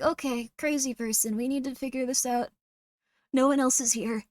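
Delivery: composed take-charge voice; steady yourself to handle someone freaking out; understated crisis calm; acted calm. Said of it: "Calm is a superpower".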